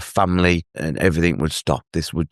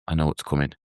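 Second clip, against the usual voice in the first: emotional; 3 semitones lower, 5 dB quieter, faster than usual. Real, not acted. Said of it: "I get a bit emotional thinking about this bit".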